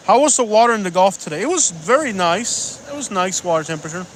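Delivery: put-on playfully lapse into a German accent. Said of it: "The German accent".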